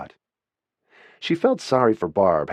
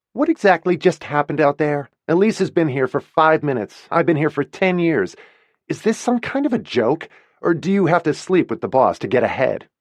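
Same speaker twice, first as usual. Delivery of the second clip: higher, louder, demanding answers; indignant confrontation; 7 semitones higher, 3 dB louder than usual. Acted. Winnie confronting her boss about the promotion, indignant and loud. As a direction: storm in and demand the truth.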